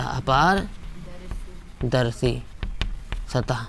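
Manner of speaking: अपारदर्शी drawn out slowly and softly, then सतह after a pause; teacher dictating a label word by word; slow dictation. Shown as a demonstration. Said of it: "dictating term for notes".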